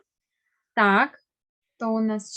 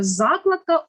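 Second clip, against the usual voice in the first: закладка with the beat on ЗА; stress on first syllable; 4 semitones higher, 5 dB louder than usual. Shown as a demonstration. Teacher models закладка for pupils, stressed on first syllable. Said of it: "Наголос на перший склад падає".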